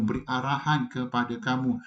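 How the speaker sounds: ordinary talk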